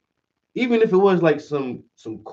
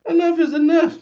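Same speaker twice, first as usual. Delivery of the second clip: exasperated outburst; 5 dB louder than usual. Retold or imitated. Russia voiced losing patience.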